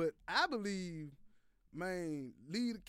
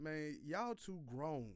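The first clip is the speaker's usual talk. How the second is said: imitating Boogie; 3 semitones lower, 5 dB quieter, much slower than usual. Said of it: "my partner Boogie said".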